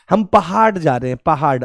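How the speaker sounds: पहाड़ mispronounced as पहाड, with a stop; hard ड in पहाड़. Shown as a demonstration. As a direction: end पहाड़ on a hard ड, no flap. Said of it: "आपको ड बोलना है ना". (पहाड़ को बिना नुक्ते के पहाड बोलें)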